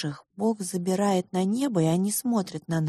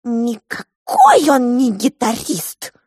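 emphatic insistence; 6 semitones higher, 10 dB louder, slower than usual. Acted. Character insists, loud and slow.

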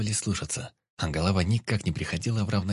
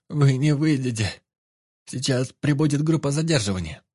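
frightened woman; 6 semitones higher, 4 dB louder than usual. A narrator's reading. Doctor warns Vik.

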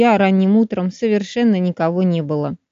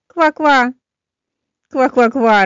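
laughing croak; 5 semitones higher, 4 dB louder, much slower than usual. A narrator's reading. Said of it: "расхохотался лягушонок".

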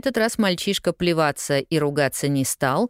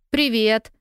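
cheerful hello; 7 semitones higher than usual. A narrator's reading. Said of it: "послышался вдруг весёлый голос".

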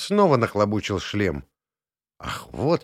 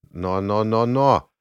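mock pompous; 3 dB louder, slower than usual. A narrator's reading. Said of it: "нарочитой чванливости".

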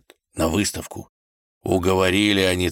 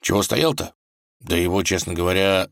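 ordinary delivery, nothing marked

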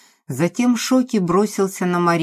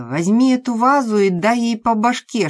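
higher, louder furious command; furious order; 6 semitones higher, 6 dB louder than usual. Acted. Maria orders the man to smash the dog, loud and furious. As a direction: bark the order at him.

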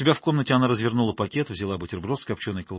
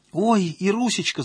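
wailing; 9 semitones higher, 6 dB louder, slower than usual. A narrator's reading. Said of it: "запричитала Танька-паразитка".

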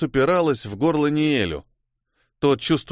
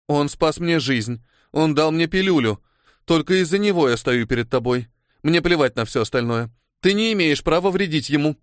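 steely and clipped; 4 semitones higher than usual. Acted. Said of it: "сухо отчеканила Микки со сталью в голосе".

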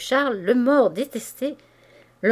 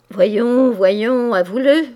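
insistent pressing; 2 semitones higher, 9 dB louder, much slower than usual. A narrator's reading. Pressing his wife, lips at her ear.

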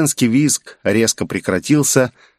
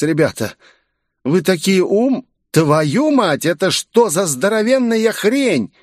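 put-on much higher, startled girl's voice; shocked girl; 10 semitones higher than usual. A narrator's reading. Fox girl seeing the giant monster, high shocked voice. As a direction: break off mid-sentence in shock.

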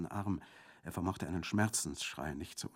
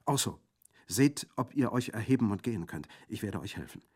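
urgent plea; 4 semitones higher, 5 dB louder than usual. Acted. Colomba urging her brother.

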